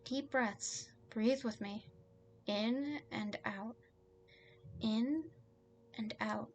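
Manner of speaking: slow, measured breathing guidance; unhurried, soothing count of breaths; calming. Acted. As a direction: lead someone through each breath. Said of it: "I need to calm him down".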